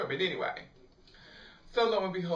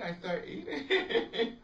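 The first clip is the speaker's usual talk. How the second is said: laughing; 7 semitones higher, much slower than usual. Real, not acted. Laughing at herself about eating.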